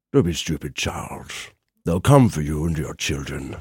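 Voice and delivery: deep, low villainous voice. Guest on a chat show, doing Ian McKellen as Magneto. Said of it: "Like when he's being Magneto".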